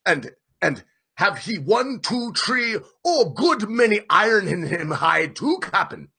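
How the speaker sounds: high, halting and stumbling; halting broken speech. A narrator's reading. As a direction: grope for each word. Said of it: "cried Queequeg disjointedly".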